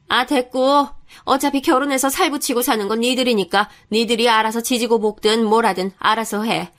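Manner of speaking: lightly voiced curt, grudging mother; dismissive mother-in-law. Mother-in-law answering the fiancée's apology, dismissive. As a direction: brush off the apology, then warn.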